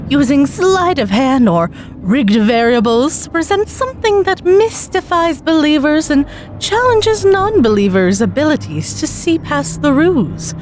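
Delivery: lightly voiced magician, savouring each word; showman magician. Magician teasing the volunteer, slow showman patter.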